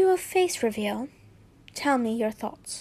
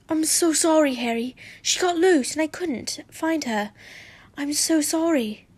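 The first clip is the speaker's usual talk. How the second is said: lightly voiced distressed apology, pitched higher; apologetic; 4 semitones higher than usual. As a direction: plead a little, as a boy confessing. Acted apology from breathless, distraught Draco.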